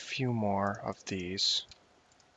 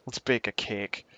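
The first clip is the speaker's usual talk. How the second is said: slow proper English. Shown as a demonstration. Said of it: "attempt to use English language proper".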